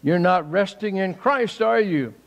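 a hint of the friend's teasing challenge; mild mock rebuke; retold friend's chiding. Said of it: "and Luke said".

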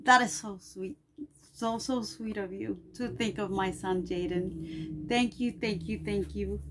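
touched thanks. Real, not acted.

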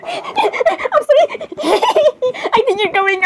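high, slow apology through giggles; cracking up. Real, not acted. Apologizing after hearing the glitch voice, cracking up. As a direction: laugh helplessly while trying to talk.

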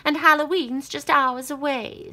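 high, loud cackling witch. Acted. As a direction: screech it like a witch. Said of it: "said the witch".

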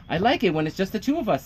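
little frog voice. Acted. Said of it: "said Little Frog".

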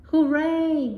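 loud happy hooray; cheering. A narrator's reading. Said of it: "yells the dad".

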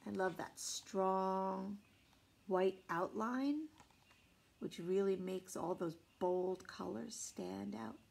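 soft unvoiced comment; hushed aside; whisper. Real, not acted. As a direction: whisper about the illustrations. Aside about the pictures.

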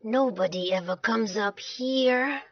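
mildly moaning complaint; understated, bored moan. Acted. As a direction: grumble with a touch of self-pity. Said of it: "moaned Sam".

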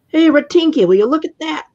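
put-on excited young witch, loud and high. A narrator's reading. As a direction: shout it so the castle hears. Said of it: "in a voice so loud".

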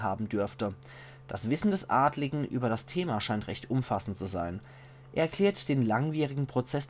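measured, carefully articulated read-aloud; book narration. A narrator's reading. Player reading a found book's notes to viewers, measured narration. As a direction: read it out like a storyteller.

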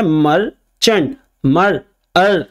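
"मर्चेंट" split as mer-chant, then "मर", "अर" alone; broken into sounds. Shown as a demonstration. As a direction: sound out "मर्चेंट" piece by piece with pauses. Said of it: "यहाँ पे अर में जो अ है". ("मर्चेंट" को टुकड़ों में तोड़कर, फिर "मर", "अर" अलग बोलें)

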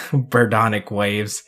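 low, slow repeat after a chuckle; chuckle, then savour the silly name slowly; drawn-out, amused echo. Real, not acted.

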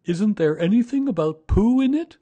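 high, loud bear voice; Pooh, eager. A narrator's reading. Pooh looks over Christopher Robin's shoulder, high eager bear voice. Bear asks about the message.

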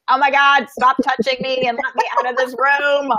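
high, rushed retelling of silent panic; mock freak-out at the masseuse; panicked inner voice. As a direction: inner alarm, played high and tense. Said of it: "freaking out in my head".

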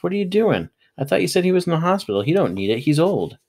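high-pitched, indignant whine of a friend; squawking protest. A narrator's reading. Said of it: "he squawked".

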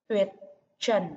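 "Tuyệt trần" word by word, clear uyêt in Tuyệt; "Tuyệt trần", short separate words, full uyêt ending; clear rhyme uyết. Shown as a demonstration. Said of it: "phát âm rõ, vần uyết".

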